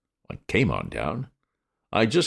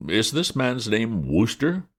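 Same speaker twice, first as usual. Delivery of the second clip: gruff policeman; 7 semitones higher, slower than usual. A narrator's reading. Policeman demands.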